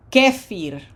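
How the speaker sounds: "kefir" with a loud first "ke"; stress on accented syllable. Shown as a demonstration. Teacher shows graphic accent, "kefir" stressed on "ke". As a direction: punch "ke", let "fir" fall in "kefir". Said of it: "Graphic accent".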